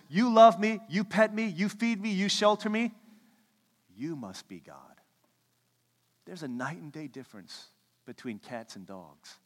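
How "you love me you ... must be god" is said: a lightly voiced eager dog, higher and louder; adoring dog. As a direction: play the devoted dog in awe. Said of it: "A dog says".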